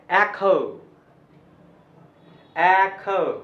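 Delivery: "echo" as EH-kho, aspirated kh; echo said right. Shown as a demonstration. Teacher modelling "echo" for students, careful and loud. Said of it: "इसको इको, एको ये नहीं बोलना है".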